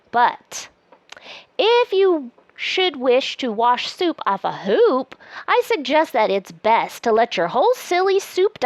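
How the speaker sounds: lively, sing-song picture-book reading; reading to children. Acted. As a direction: read it aloud like a bedtime book. Reads the book aloud.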